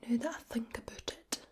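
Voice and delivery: whispered Glasgow Scots, rolled R's; soft Glaswegian ASMR whisper; Glaswegian accent. Shown as a demonstration. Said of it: "So the Glaswegian accent is one that".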